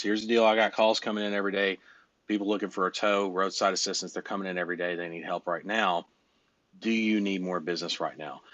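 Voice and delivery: steady, businesslike sales pitch; authoritative pitch. Shown as a demonstration. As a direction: pitch like you have calls waiting. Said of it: "say it with a little authority".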